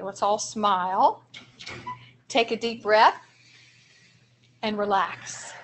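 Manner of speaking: slow, with long pauses between steps; slow calming demo. Shown as a demonstration. Teacher leads the room through a calming breath, slowly. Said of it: "practice this with me".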